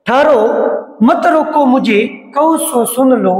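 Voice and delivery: slow, drawn-out verse recitation; poem recitation. Acted. Teacher recites Kaikeyi's plea to the assembly, slow poem recitation. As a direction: recite the verse with measured, stretched words.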